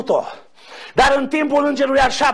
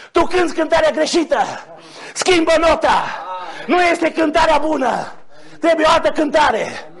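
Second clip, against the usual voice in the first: commanding correction; 4 semitones higher than usual. Acted. Voices the Spirit correcting Moses.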